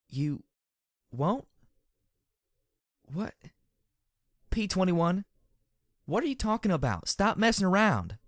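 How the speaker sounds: rising high incredulous questions; can't believe what she hears; shocked disbelief. A narrator's reading.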